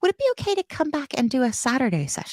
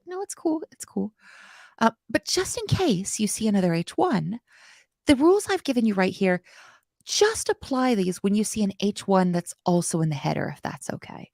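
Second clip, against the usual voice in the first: apologetic. Pretend. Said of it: "less apologetic to your C S S".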